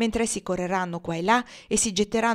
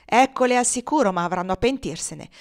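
brutal gloating; 4 dB louder than usual. Acted. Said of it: "con un ghigno brutale".

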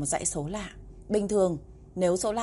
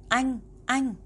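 put-on a small girl's much higher whine; little girl protesting; 6 semitones higher than usual. Sulky little sister calling her brother, high whine.

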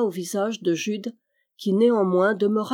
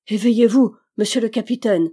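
loud urgent wake-up call; raised, pleading call; crying out; 2 semitones higher, 6 dB louder than usual. A narrator's reading. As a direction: shout to rouse a sleeper. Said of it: "cria-t-il encore d'une voix affaiblie déjà".

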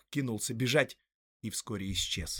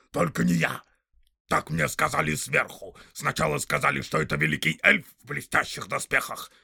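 loud, high snarling orc tracker; rough orc voice; 4 semitones higher, 6 dB louder than usual. Acted. Orc tracker arguing with the big orc, loud and snarling. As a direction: bark it out like a quarrelsome orc.

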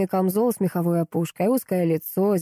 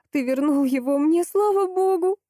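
overjoyed thanks; 10 semitones higher than usual. A narrator's reading. Wife, overjoyed, thanks God for her son's life. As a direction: pour out relief and gratitude.

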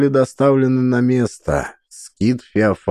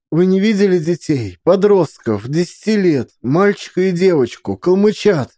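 anxious plea; 8 semitones higher than usual. Acted. Anxious mother questioning strangers.

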